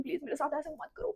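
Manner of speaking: soft pleading, करो rising; tearful pleading. Retold or imitated. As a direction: beg softly, ending on a rise. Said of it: "मैं उसके सामने भी बहुत रो रही हूँ".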